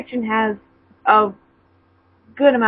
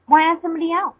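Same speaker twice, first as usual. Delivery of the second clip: softened voice; 7 semitones higher than usual. Acted. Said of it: "she asked as her voice softened".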